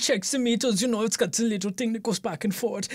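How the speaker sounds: put-on stereotypical Austrian accent; German submariner accent. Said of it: "my favorite accent".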